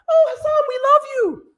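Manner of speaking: high mocking falsetto, gushing; swooning fan girls. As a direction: ham up an adoring girl crying out his name. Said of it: "all these girls that are just like".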